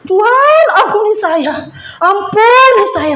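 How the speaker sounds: high-pitched cry for mercy, re-enacted; retold tearful plea. Speaker begs God for forgiveness, tearful retelling. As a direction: plead upward to God, close to tears. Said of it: "saya semakin nangis".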